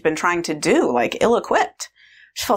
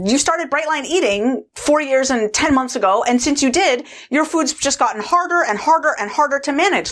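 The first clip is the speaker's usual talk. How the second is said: raised, mildly overwrought listing of burdens; agitated complaint; 6 semitones higher than usual. Retold or imitated. Food controller listing her burdens, mildly agitated. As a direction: pile up the grievances, pitched up. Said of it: "she just got more and more agitated".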